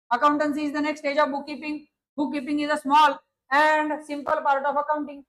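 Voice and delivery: very slow, deliberate reading of the definition; slow dictation. Shown as a demonstration. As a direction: read it out slowly so they can write. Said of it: "reads definition aloud slowly". (धीमी आवाज़ में परिभाषा लिखवाना)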